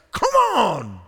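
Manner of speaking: loud, high shout to rouse them; urging shout. Retold or imitated. Paul urging the sleepy church, shouting. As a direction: yell to shake them awake. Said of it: "I think Paul is thinking about these guys".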